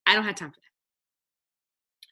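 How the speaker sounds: "I don't have time for that" drawn out slowly, as a put-on excuse; slow, exaggerated "I don't have time for that"; mock dismissive. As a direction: slowly mimic someone brushing it off. Mocking excuses, said twice.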